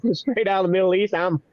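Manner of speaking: lightly hammed-up Middle Eastern Jewish fella; a hint of a Jewish character voice; Jesus. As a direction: introduce yourself in a mildly put-on character voice. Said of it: "and I talk like this".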